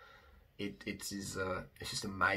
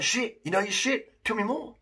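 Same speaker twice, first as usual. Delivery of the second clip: impressed convert; 12 semitones higher, 4 dB louder than usual. Retold or imitated. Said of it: "they'd be like".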